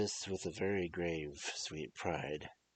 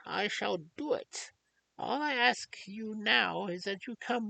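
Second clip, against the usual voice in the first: grave and stern. Acted. Old doctor sternly answers the furious young lord. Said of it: "said gravely and sternly".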